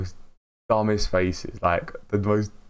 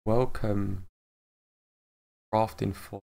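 stiff robotic intro; much slower than usual. Retold or imitated. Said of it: "I'm as solid as a rock".

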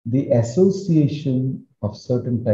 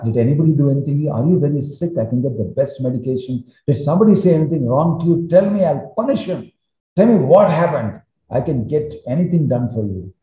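a king begging his favourite wife to say what's wrong; anxious pleading; 4 semitones higher than usual. Acted. Husband pleading anxiously with his upset wife, pitched up and urgent.

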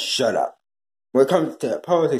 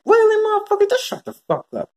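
furious shout. Real, not acted. Ranting at Matt Barnes over his post, furious shout. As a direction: yell it straight at him, fed up.

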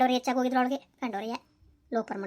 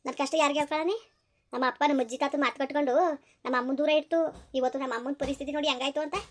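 bitter grief; 2 semitones lower, 4 dB quieter than usual. Acted. Bitter grief after quarrel.

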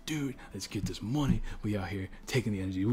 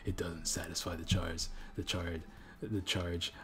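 changed voice; 2 semitones lower, 5 dB quieter, slower than usual. Acted. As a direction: lean into a strained Ultra Instinct voice. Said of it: "Apparently I can't speak anymore".

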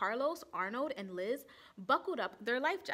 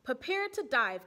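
louder command to dive; rally the class down; captain's call; brisk order; 3 semitones higher, 6 dB louder than usual. Acted.

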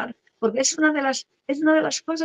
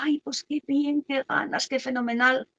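joyful welcome; 4 semitones higher than usual. Retold or imitated. Family welcoming the baby news, high and gushing. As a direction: gush like a happy relative. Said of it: "la bienvenida".

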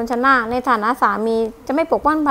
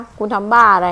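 a louder, lower mock outburst; mock angry heroine; 3 semitones lower, 4 dB louder than usual. A wife imitates a romance heroine scolding the hero, mock angry. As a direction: play the furious romance heroine, half in jest. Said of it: "ถามพระเอกด้วยความโกรธ".

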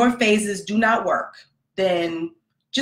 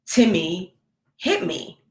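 put-on crying child; slower than usual.

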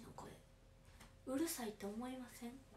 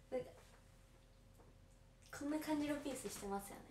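ordinary delivery

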